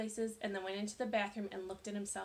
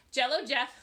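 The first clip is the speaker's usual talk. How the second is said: giggling slip; 3 semitones higher, 10 dB louder than usual. A narrator's reading. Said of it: "she laughed at her mistake".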